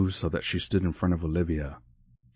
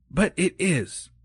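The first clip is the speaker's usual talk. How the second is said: gentle protest; 11 semitones higher, slower than usual. Acted. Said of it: "Missus Claus protested".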